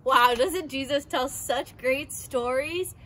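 slow, loud, beaming wonder; excited. Acted. Girl wows her class about Jesus' stories, excited. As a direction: gush to the kids about the story. Enthusing to kids after reading.

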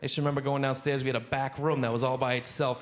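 normal talking voice

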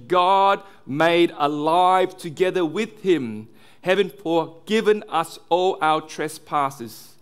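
slow, weighty preacher reading the verse; deliberate pulpit proclamation; emphatic scripture reading. Acted. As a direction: proclaim the verse slowly, leaning on key words.

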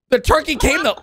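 high, excited ringside announcer; hyped fight commentary. Pretend. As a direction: call the showdown like a big match. Calls the turkey fight.

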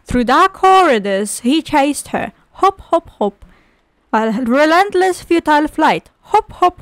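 rhythmic rhyming-tale narration; lilting read-aloud voice; storybook reading. Acted. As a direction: read it to a child with drama.

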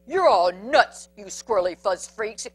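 bully gives up in a huff; yelled. Acted. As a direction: holler before storming off. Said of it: "yelled Big Bark".

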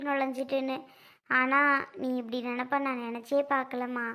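gentle reassurance. Acted. Sister-in-law tells Sundari no apology is needed, gently reassuring. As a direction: let it go kindly, voice settling down.

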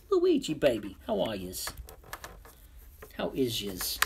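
loud, bouncy Italian-ish hello; loud greeting. Acted. Loudly greeting Luigi, his regular viewer, with a playful lilt. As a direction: call out to Luigi like an old pal.

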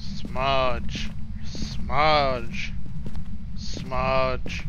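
slow, low caveman grunt. Pretend. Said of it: "You sound like caveman".

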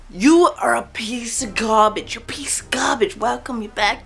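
mock sweetness sliding into a whisper; sarcastic, hissed insults. Mock youtuber to his fans, sarcastic whispered insults. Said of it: "say things really sarcastically to your fan base".

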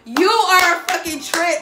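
drawn-out, teasing disbelief; mock laughing reproach; imitating amused mom. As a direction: mimic a mother cracking up at her kid. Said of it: "My mom starts dying laughing".

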